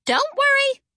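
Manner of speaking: high-pitched, dreamy character voice; airy reassurance. A narrator's reading. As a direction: reassure everyone as if in a trance. Eyes closed, reassuring amid the chaos.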